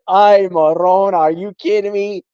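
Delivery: a hint of an exasperated Italian-American boss; Michael Bullock. Host imagining his boss scolding the show, mock exasperated. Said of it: "Michael Bullock is probably like".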